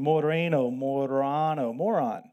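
moreno drawn out slowly, morphing into moron; sliding into moron. Shown as a demonstration. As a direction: say moreno, then morano, then moron. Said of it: "Sounds like moron".

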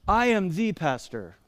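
pompous little pause round a stressed "the". Shown as a demonstration. Pastor jokingly describing himself, "the" heavily stressed. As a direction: lean on "the" as "thee", mock-grand. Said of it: "I don't use the definite article".

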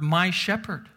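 "my" leaned on before "shepherd"; single out the little word "my"; stress on "my". Shown as a demonstration. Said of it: "Talk about that little word".

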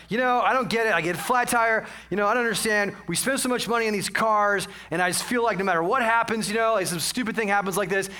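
mildly worked-up complaining rant; mock getting mad. Husband ranting to his wife about the flat tire, mildly mad. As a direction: gripe on and on, a touch exasperated. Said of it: "I start getting all mad".

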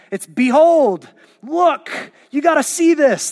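preacher urging the crowd to behold, in awe; urgent wonder. Real, not acted. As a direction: grab them by the collar with wonder.

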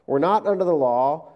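slow, deliberate proclamation of promises; preaching proclamation. Acted. Preacher listing the gospel promises, slow and deliberate. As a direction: lay each promise down slowly.

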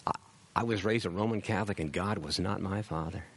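ordinary talk, nothing marked

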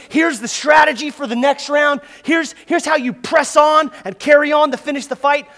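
shouted coaching; corner man shout. Retold or imitated. Corner man yelling strategy at his fighter between rounds. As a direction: bark the plan like a corner man.

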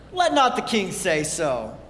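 reads the line through a laugh; chuckling while quoting the king; laughing quote. Retold or imitated. Pastor to congregation, quoting Jehoshaphat through laughter. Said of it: "Jehoshaphat's like".

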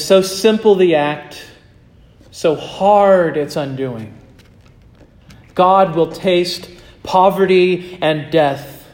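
slow, weighty reading of a quote; measured, solemn quotation; read very slowly. Shown as a demonstration. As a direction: let every phrase land slowly. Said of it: "I'm gonna read it very slowly".

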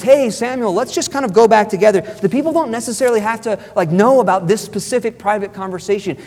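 lightly acted smooth-talking schemer; wheedling. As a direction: talk someone round as if it's no big deal. Voices Saul's sly wheedling.

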